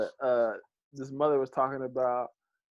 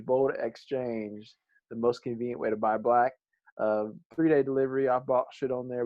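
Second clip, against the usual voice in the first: sponsor read, slowing on the brand name; reading the sponsor copy to listeners; podcast ad spot for Bold Exchange; 3 semitones lower than usual. Acted.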